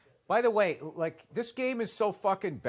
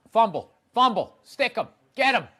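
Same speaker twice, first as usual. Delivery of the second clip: cheering yell; 7 semitones higher, 12 dB louder than usual. Real, not acted. Cheering at the fumble on TV.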